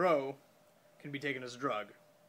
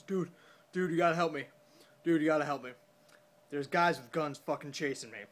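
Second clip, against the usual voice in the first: louder, higher retold pleading; urgent plea; 4 semitones higher, 6 dB louder than usual. Chased man begging for help, re-enacted urgent plea. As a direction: act out begging a friend for help.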